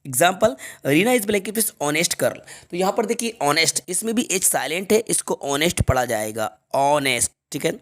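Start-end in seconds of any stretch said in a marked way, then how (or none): 0.9-2.4 very slow, each word apart; slow dictation. Shown as a demonstration. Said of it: "हमारा next question है". 6.7-7.3 "ऑनेस्ट" with no h, starting on the vowel; silent h. Shown as a demonstration. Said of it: "इसको हॉनेस्ट नहीं".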